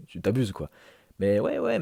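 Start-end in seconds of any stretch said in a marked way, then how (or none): 1.2-1.8 emphatic. Real, not acted. Voiceover rebuttal to viewer doubt.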